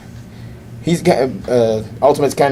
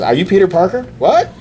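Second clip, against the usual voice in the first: high, breathless fan squeal; high-pitched awestruck kid voice; excited fanboy; 9 semitones higher than usual. Retold or imitated. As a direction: gush like a starstruck kid. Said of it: "And he's like".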